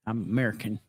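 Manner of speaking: lightly voiced folksy president; halting, half-hearted presidential impression; George W. Bush. Host attempting a president's speech, light impression. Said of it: "I stopped at, at Bush".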